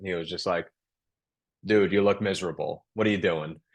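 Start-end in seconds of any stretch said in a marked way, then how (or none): 1.7-3.5 imitated, thick New York accent. Quoting the father's words at home after graduation: thick new york accent. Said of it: "a pretty thick New York accent".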